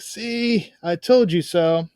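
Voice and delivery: a hint of mock vindication; Nestor. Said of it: "And Nestor's like".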